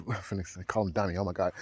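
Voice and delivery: quiet, low laugh at own slip; amused. Real, not acted. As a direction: say it softly through a stifled laugh.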